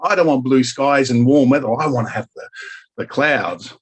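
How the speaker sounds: high, mock-outraged refusal of sunshine; mock Australian. Australian in Germany pretending to love clouds, mock outrage. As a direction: play an Australian spurning blue skies.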